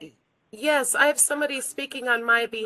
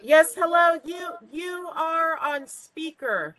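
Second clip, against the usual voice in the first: shouting into the phone; 5 semitones higher, 3 dB louder than usual. Real, not acted. Caller shouting into speakerphone.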